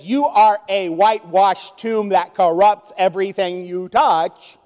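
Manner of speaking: slow, stern rebuke to the Pharisees; Jesus rebuking. Retold or imitated. Jesus confronting the Pharisees with a slow stern charge. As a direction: lay the charge on them slowly and heavily. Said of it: "he looks at them and says".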